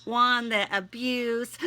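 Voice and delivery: pleading, prayerful read; heartfelt prayer. Acted. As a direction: pour it out to God in prayer. Spoken prayer to God.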